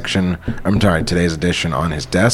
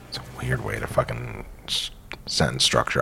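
whispered, much softer; whispered aside; 8 semitones lower, 11 dB quieter than usual. Real, not acted. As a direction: mutter it under your breath. Aside mocking the script.

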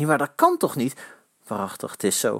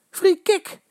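shrill yell. A narrator's reading. Eddy demanding a free kick from the referee, shrill yell. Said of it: "gilt Eddy".

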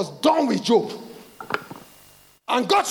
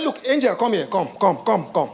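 Jacob pleading; 4 semitones higher than usual. Retold or imitated. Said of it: "And he said".

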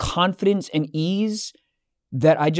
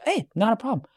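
calm voice; 4 semitones higher, 7 dB quieter than usual. Retold or imitated. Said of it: "like, this most calm voice".

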